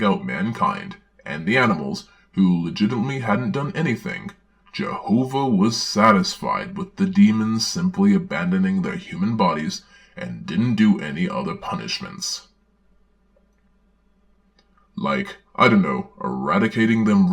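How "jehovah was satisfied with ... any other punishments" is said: put-on earnest children's-book reading voice; storybook narration. Narrator reading a children's Bible story aloud, earnest storybook narration. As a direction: read it like a Sunday school storybook.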